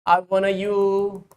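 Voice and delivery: lightly voiced pleading suitor, slow; voicing a lovesick base. Teacher voicing the base begging the acidic H, lightly pleading. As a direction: coax it in like a mild lovesick plea. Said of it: "So this base will say".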